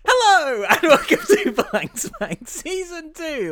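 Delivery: high, loud, slow showman welcome; podcast announcer. Acted. Host opening the podcast episode, loud high showman voice. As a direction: open the show like a hammed-up host.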